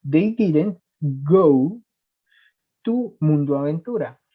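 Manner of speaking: very slow and deliberate, each word apart; slow teacher demo of They didn't go; slow, careful model sentence. Shown as a demonstration. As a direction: spell it out slowly for the class. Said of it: "teacher models the example sentence".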